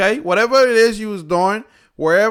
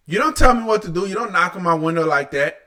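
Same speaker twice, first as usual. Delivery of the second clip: mocking quote; faster than usual. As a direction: rattle off "You don't tell me" as a snotty mock. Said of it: "Grown-ass man talking like that".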